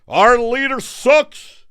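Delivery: high, slow alien voice; loud drawn-out alien. Pretend. Alien voice continues.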